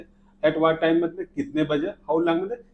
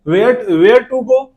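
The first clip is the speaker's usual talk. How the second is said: very slow and louder, word by word; slow, emphatic dictation; 4 semitones higher, 6 dB louder, much slower than usual. Shown as a demonstration. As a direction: stretch each word out. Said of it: "teacher dictating example phrase". (ज़ोर से, धीरे-धीरे लिखवाना)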